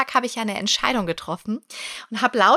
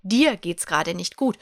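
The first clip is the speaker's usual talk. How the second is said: gentle inner voice; 2 semitones lower, 3 dB louder, slower than usual. Retold or imitated. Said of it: "Nein, die will dir sagen".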